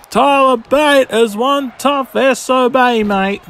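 a light, jokey Australian twang; hint of an Australian accent, played for laughs; mock Australian. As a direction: toss it off like a cheeky Aussie mate. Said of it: "I sound like a bloody Australian".

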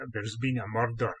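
lightly imitated Scottish TV detective; a touch of mock Scottish crime drama; Taggart-style Scottish accent. Presenter quotes Taggart for a joke, light mock Scottish accent. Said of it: "episodes of Taggart where somebody comes in".

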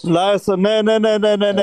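loud, high nee nee nee; loud interruption. Real, not acted. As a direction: shout them down to take over. Cutting in over the others.

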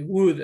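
would pronounced just like wood; silent L. Shown as a demonstration. Teacher explaining the silent letters, wood like the timber. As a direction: say wood with no L sound. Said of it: "La O y la L es muda".

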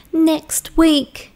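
put-on young okapi, a little upset; sad okapi voice.

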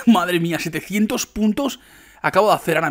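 loud, high burst of delight at the score; excited outburst. Real, not acted. Gamer thrilled by seven hundred points, loud excited outburst. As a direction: shout it out, thrilled.

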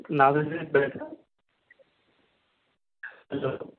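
normal talking voice

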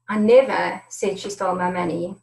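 "never" stressed, the line ending on a rise. Shown as a demonstration. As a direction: lean into "never". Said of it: "the tone and inflection is different in every single word".

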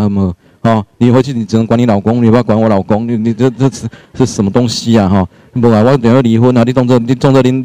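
low, muttered mock retort at the mother-in-law; a mild grumbling inner rant; daughter-in-law silently answering her mother-in-law, mock resentful. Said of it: "你头脑不是一直在回应吗".

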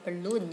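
balloon stressed on the second syllable, bal-LOON. Shown as a demonstration. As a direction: put the weight on LOON in balloon. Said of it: "nhấn âm hai".

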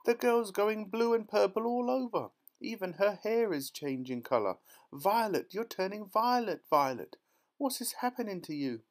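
high, loud, hysterical mother; shrill-pitched alarm; panicked yelling. A narrator's reading. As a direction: cry out in mounting horror. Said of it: "yelled Missus Beauregard".

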